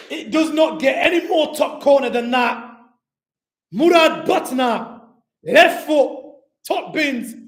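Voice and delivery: loud, hyped goal recap; excited recap. Real, not acted. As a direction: shout the recap with joy.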